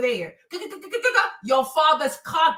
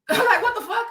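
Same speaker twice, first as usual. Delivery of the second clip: laughing; 6 semitones higher than usual. Real, not acted. Laughing at the commenter.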